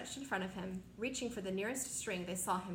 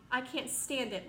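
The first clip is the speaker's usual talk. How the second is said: wailing; 3 semitones higher than usual. Acted. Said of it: "wailed the earthworm".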